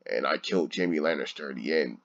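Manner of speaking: mock him as a sulky emo boy, dragging it out; whiny emo mockery. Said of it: "a whiny emo character where he's just like".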